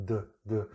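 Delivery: isolated voiced "duh" sounds. Shown as a demonstration. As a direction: sound out D on its own, with vibration. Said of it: "The D is a voiced sound".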